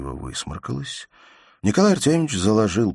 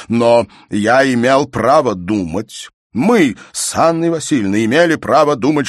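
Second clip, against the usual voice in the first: a pompous father lecturing louder and higher, swelling with indignation; angry stern father; 5 semitones higher, 8 dB louder than usual. A narrator's reading. Pompous father lecturing his daughter, voice swelling with anger. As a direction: preach at her like an outraged parent.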